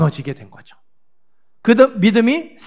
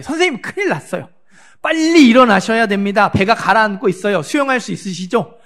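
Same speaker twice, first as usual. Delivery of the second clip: mock casual waking; 3 semitones higher than usual. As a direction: rouse the teacher in a light, joking panic. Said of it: "이렇게 깨웠을 거예요". (웃음 섞인 빠르고 높은 가벼운 호들갑)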